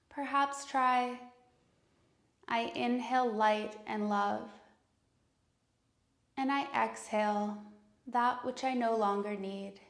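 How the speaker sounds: calm, unhurried meditation voice with long pauses; guided meditation. Acted. Yoga teacher leading students into breath and intention, calm guided meditation.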